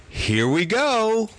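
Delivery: high, slow, stretched-out cartoon voice; a distant cartoon character drawing out the words. Hallucinated voice from far off, in a slow high cartoon voice. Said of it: "Like a fucking cartoon voice".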